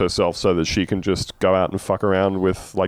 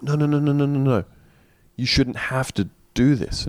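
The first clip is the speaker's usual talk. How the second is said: insistent Cam; 5 semitones higher than usual. Retold or imitated. Cam voiced fussing over colleague.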